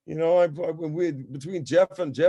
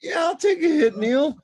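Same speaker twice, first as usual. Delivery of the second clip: high, loud, eager yes; loudly grabbing the chance at a hit; eager reply; 12 semitones higher, 7 dB louder than usual. Retold or imitated. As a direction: jump at the offer, up high and loud. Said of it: "I'm going".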